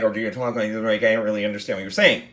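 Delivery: rushed, slurred mumble; mumbled. Shown as a demonstration. Teacher shows poor articulation to students, mumbled. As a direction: run the words together, barely enunciated. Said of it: "Articulation. How well do you, like, enunciate".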